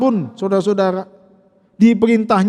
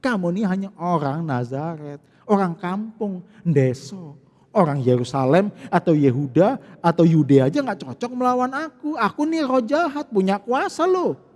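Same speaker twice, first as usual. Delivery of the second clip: belittling demon taunt; 4 semitones lower than usual. Acted. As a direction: talk down to him like a village nobody. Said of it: "Gitu maksudnya".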